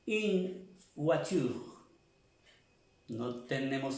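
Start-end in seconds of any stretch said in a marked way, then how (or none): 0.1-1.7 slow demo. Shown as a demonstration. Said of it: "Para cuando decimos".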